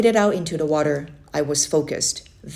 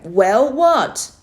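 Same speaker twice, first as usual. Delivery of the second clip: puzzled reply; 5 semitones higher, 6 dB louder than usual. Acted. Boy answers uncle at river.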